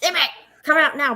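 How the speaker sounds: mother calling her lost daughter, rising panic; panicked calling. Retold or imitated. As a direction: call out for the missing child in mild panic. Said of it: "the panic level was starting to rise in my voice".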